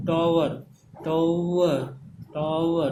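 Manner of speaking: टावर drawn out as "to-wuh", falling; emphatic, separated model of टावर; two vowels sounded. Shown as a demonstration. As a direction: sound out the glide inside टावर. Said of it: "ऊ और ओ का sound आ रहा है".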